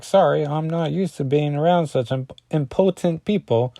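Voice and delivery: a light put-on voice, stumbling into the slip; lightly voiced Husk.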